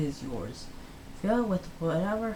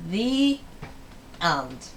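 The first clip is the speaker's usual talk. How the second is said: big finish; 2 semitones higher, 4 dB louder than usual. Acted. Story closes with flourish.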